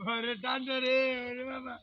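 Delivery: shivering from freezing cold water; in ice cold water. Acted. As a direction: gasp out the words as if just dunked in icy water. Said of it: "ঠান্ডা, কি ঠান্ডা".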